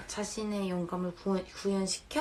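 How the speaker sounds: tripping over 구현시켜 with a retainer; lisping through a retainer. Real, not acted. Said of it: "왜 이렇게 발음이 어렵냐".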